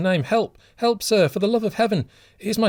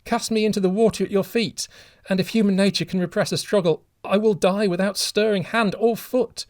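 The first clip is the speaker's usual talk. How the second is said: high, loud, desperate pleading; anguished begging; 13 semitones higher, 6 dB louder than usual. A narrator's reading. Kneeling father begging the stranger to take his life instead, anguished. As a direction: offer your own life in anguish.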